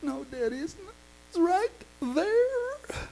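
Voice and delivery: imitating the girl insisting it's there; insistent little girl. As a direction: daughter insists to daddy, child voice. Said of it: "And Shantae said".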